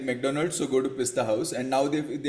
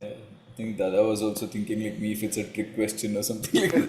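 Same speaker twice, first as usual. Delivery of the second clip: laughing; 4 semitones lower than usual. Real, not acted. Joking about a trick question.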